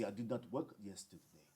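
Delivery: low, soft imitated British English; mock British accent, half-swallowed. Shown as a demonstration. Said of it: "Hablan así".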